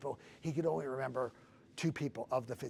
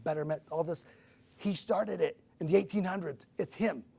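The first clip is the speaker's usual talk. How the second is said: raised, louder voice driving each point home; impassioned insistence; 3 semitones higher, 6 dB louder than usual. Retold or imitated. Caller reveals who started all motivation, impassioned insistence. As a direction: imitate a caller building to an emphatic reveal. Caller's awed revelation acted out.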